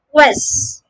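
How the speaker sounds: "Quest" with rounded lips, KW, falling; first syllable drill. Shown as a demonstration. Teacher drilling the first syllable, rounded lips. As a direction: isolate "Quest" for students. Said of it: "The first syllable is made with a k combined with a w sound".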